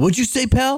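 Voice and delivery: very high, mock aggressive, defensive drunk voice. Retelling a man arguing with the speaker's friend, imitating a defensive guy. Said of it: "Just like he was defensive".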